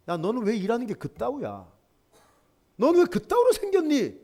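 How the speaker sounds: snipe at someone in a huff; mock angry scolding. Imitating a typical angry person.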